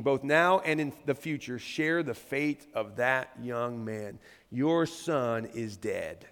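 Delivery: low, soft and very slow; grave bad news. A narrator's reading. Ethiopian telling the king of death, grave. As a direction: let the terrible news land slowly.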